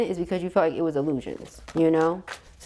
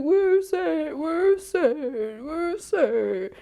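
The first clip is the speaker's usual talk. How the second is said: 1 searching; 9 semitones higher, much slower than usual. Pretend. Masculine searching for sunflower.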